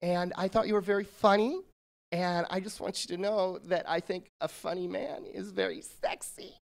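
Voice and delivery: soft, breathy flirt sinking to a whisper on "sexy"; hushed flirty voice of a fan. Retold or imitated. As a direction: coyly tease him. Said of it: "she says".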